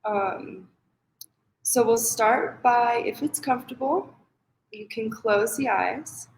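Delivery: unhurried guided meditation with long pauses. Acted. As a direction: ease them into the practice, pausing between phrases. Leads a meditation.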